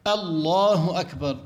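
الله أكبر said slowly with a short opening alif; slow, careful الله أكبر, hamza not lengthened; correct takbir. Shown as a demonstration. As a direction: model الله أكبر for students, no stretch. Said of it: "هكذا يلفظ هذه الألف".

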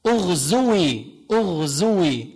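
اغزوي said slowly with the w sounded; underlying form. Shown as a demonstration. Teacher reconstructs the original verb form, slow. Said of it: "هيك أصله".

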